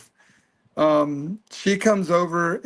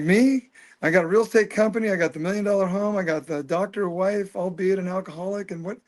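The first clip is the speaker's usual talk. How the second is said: higher, fast, disbelieving list of what he already has; incredulous protest; 3 semitones higher than usual. Retold or imitated. Protesting to the luminous beings that he already has everything, incredulous. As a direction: rattle off your life in stunned disbelief.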